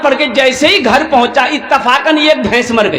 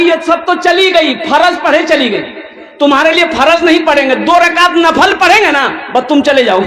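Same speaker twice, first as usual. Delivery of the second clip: mock anger; 4 semitones higher than usual. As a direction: snap at the crying calf in mock fury. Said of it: "इसको गुस्सा आया". (झुंझलाया हुआ नकली गुस्सा)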